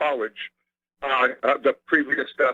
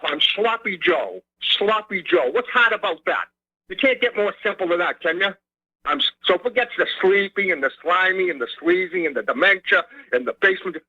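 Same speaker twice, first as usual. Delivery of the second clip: lightly voiced irked politician, Boston accent; mildly exasperated mock campaign pitch, stretching the nickname; Joe Biden. Caller resuming his candidate impression for the host, mildly irked Boston delivery. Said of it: "I'm just doing an impression of him".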